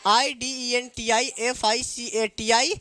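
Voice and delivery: letter by letter, slowly; slow spelling. Shown as a demonstration. Teacher spelling a word for the class, slowly. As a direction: spell it so pupils can copy. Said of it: "spells identification".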